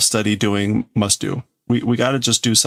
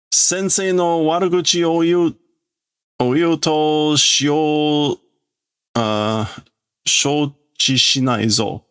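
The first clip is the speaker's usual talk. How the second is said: put-on pitched-up kid voice, slow and firm on the end; defiant kid; 6 semitones higher than usual. Classmate warns Shibugaki to stop badmouthing the teacher, firm kid voice. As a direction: warn him not to badmouth the teacher. Other kids revolt.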